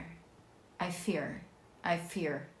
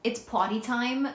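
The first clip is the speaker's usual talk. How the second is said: Jersey accent; potty time in a thick Jersey accent; 4 semitones higher, 5 dB louder, slower than usual. Shown as a demonstration. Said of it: "there's no way to say it where it doesn't sound like you're doing a Jersey accent".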